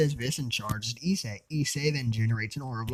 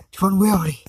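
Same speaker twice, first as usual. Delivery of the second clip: whisper; 7 semitones higher, 9 dB louder than usual. Acted. Issei grumbles about powers.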